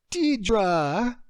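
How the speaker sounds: high, loud, gushing greeting; overanimated. Acted. Friend on the phone, overanimated greeting. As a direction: burst with excitement at hearing her. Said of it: "Lacey's overanimated voice poured through the phone".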